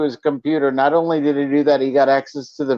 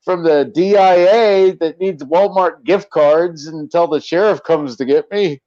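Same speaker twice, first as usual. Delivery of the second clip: mock sarcastic victim; 4 semitones higher than usual. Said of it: "that one guy that it's like".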